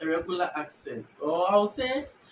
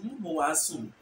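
"mo bo wa sum" the Fanti way, with "mo"; Fanti accent. Shown as a demonstration. Teacher comparing the two side by side, Fanti accent. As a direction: Fanti rendering, falling at the end. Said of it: "But Fanti will say".

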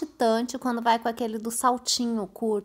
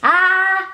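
held open "ah" at the game; game-control "ah"; 8 semitones higher than usual. Real, not acted. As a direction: call out a sustained vowel to steer the character. Voice-controlled game, sound moves the character.

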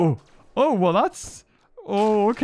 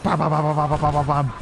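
imitated gunfire bams; 6 semitones lower than usual. Mimicking weapons firing in game.

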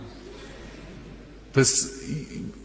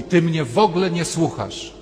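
complaining husband; 5 semitones higher than usual. Retold or imitated. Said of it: "Ilu mężczyzn w kółko mówi".

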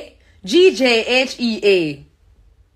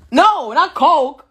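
insistent correction; 4 semitones higher, 4 dB louder, slower than usual. Real, not acted. Insisting against being misheard.

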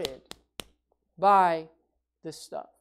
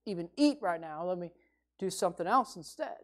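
retold lament; 4 semitones lower, 10 dB quieter than usual.

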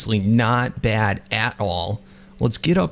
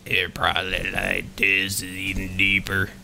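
earth elemental; 5 semitones lower, 5 dB quieter than usual. Shown as a demonstration. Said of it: "How does a woman rock elemental voice go?".

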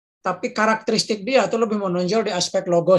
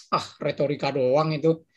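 tiruan cibiran bernada rendah; meremehkan; 4 semitones lower, 3 dB quieter than usual. Retold or imitated. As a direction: tirukan orang meremehkan, nada diturunkan. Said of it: "itu merendahkan retorika". (nada meremehkan)

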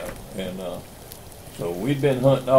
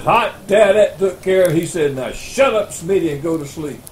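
higher, louder hammed-up coach voice; gruff coach settling the matter; mock coach; 6 semitones higher, 6 dB louder than usual. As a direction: coach telling Smitty to hush and sleep.

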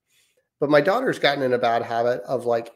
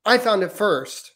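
put-on high, slow toddler insisting; 9 semitones higher than usual. Son, two and a half, claiming a toy in a high, slow toddler voice. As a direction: say it like a two-year-old, much higher and drawn out. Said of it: "my son, who's two and a half, will say".

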